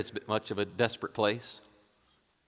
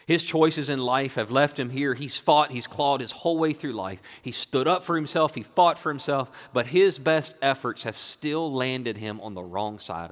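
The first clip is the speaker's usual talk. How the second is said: slightly raised, driving sermon delivery; impassioned preaching; 4 semitones higher, 6 dB louder than usual. Acted. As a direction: preach it with building urgency, then ease off. Preacher builds in intensity.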